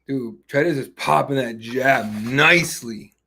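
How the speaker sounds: slow, savoring hyped call. Real, not acted. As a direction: relish every word of the jab. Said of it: "I'm hyped as fuck now".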